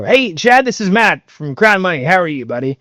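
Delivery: high-pitched, enthusiastic phone greeting; upbeat opener. Shown as a demonstration. Sales coach showing a rep a contrasting cold-call opener, upbeat and high. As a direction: hit the greeting high and bouncy. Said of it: "they're totally different".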